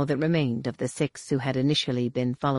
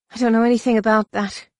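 higher, firm defiant reply; lightly voiced defiant heroine; defiant retort; 6 semitones higher, 4 dB louder, faster than usual. A narrator's reading. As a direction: stand up to the warrior. Heroine answers hostile warrior.

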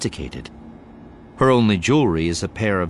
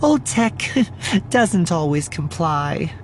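high-pitched apology with a small laugh; sheepish, much higher character voice; apologetic; 10 semitones higher, slower than usual. A narrator's reading. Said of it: "an apologetic shrug".

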